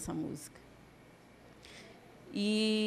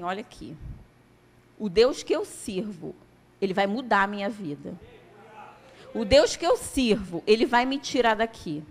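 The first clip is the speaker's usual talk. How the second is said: building to a loud, firm proclamation of faith; defiant declaration; 4 dB louder than usual. Retold or imitated. Paralysed patient defies the taunting doctor, loud and firm. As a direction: declare it with rising conviction, louder.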